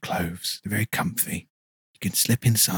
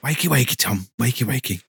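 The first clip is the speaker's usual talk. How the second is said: higher, louder wakey wakey; sing-song wake-up; 5 semitones higher, 4 dB louder than usual. Acted. Guest rouses the dozing host, sing-song and loud. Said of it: "you speak so soft".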